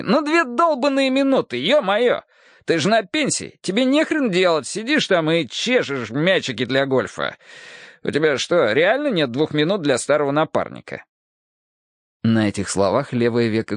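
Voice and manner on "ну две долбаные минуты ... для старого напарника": higher, exasperated needling; indignant cop voice. Acted. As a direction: rile him up. Hardwick indignant. (возмущённо, с подначкой)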